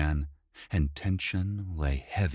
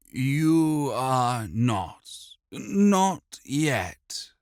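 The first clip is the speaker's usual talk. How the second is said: calm, warm; 8 semitones higher, 4 dB louder, much slower than usual. A narrator's reading. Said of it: "in a calm, almost warm voice".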